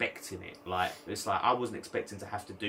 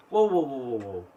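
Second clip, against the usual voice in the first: loud whoa; 6 dB louder than usual. Retold or imitated. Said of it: "she was like".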